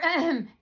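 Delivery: demonstrated throat clear. Shown as a demonstration. Showing her own throat clearing, demonstrated. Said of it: "if I clear my throat".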